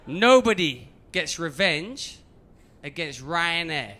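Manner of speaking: slow, menacing game-villain voice; end-level boss. Retold or imitated. Check-in woman as Street Fighter boss, slow villainous warning. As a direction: announce it slowly, like a video-game villain. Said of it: "end-level boss".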